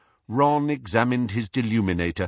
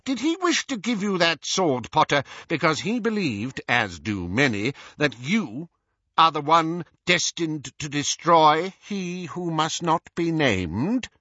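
lightly voiced Minister, higher, probing; pressing Minister; 6 semitones higher than usual. Minister challenges Harry over the sword, pressing. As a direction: question him weightily, stretching the final words.

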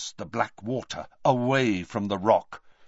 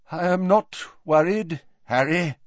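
a little stronger; 5 semitones higher, 3 dB louder than usual. A narrator's reading. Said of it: "his voice a little stronger".

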